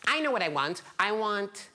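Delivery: put-on excited, lifted little-old-lady voice; eager old woman. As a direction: announce a greedy choice with relish. Old woman excitedly picks wish.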